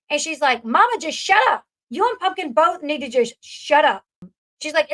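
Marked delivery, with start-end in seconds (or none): 0.6-4.0 mock fed-up outburst at mama; losing her cool. Daughter loses her cool at mama over the nagging, exasperated. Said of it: "kinda loses her cool".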